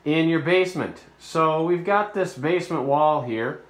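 speaking through a respirator mask; muffled by mask. Real, not acted. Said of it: "I am wearing a respirator mask".

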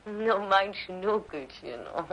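slow, soft, drawn-out coo; tender baby coo. Acted. Grandmother holding the baby, slow soft coo. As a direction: melt over the baby in your arms.

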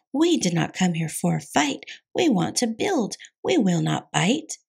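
bouncy storybook verse; playful rhythmic recital; rhythmic rhyme. Acted. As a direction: chant the rhyme with a lively beat.

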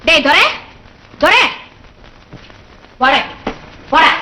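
put-on summoning a boy by name, rising at the end; calling out. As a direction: call out for a child in another room.

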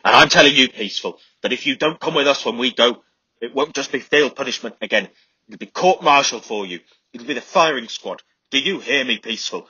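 high, loud raging threats; demented rant. A narrator's reading. Sergeant threatening Charlie with the firing squad, raging shout. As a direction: threaten him like a madman. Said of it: "ranting like a man demented".

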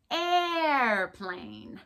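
"airplane" with a whiny, drawn a; whined a. Shown as a demonstration. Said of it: "So we're whining".

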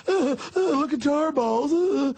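very high, stammering mock panic; hammed-up breathless hysteric voice. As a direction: squeak like a frightened alarmist. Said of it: "hyping it".

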